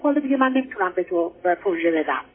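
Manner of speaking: ordinary talk, nothing marked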